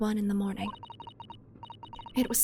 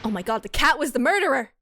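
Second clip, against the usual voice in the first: shocked; 2 semitones higher, 6 dB louder, faster than usual. Real, not acted. Shocked reaction to twist.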